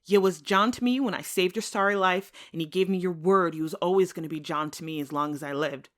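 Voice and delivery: defiant reply. Acted. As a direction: throw his broken promise back at him. Wounded Tom defies John.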